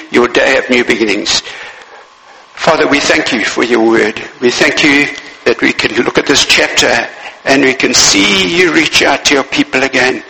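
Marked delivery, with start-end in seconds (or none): 2.5-10.2 lower, hushed prayer voice; closing prayer. Acted. Preacher praying over the congregation, lower and hushed.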